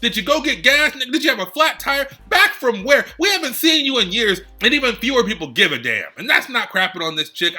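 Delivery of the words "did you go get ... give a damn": heated rant. Real, not acted. Vlogger venting to viewers about a returning wrestler, heated and higher. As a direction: pitch jumps higher, words pushed out in real exasperation. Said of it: "I'm a little heated".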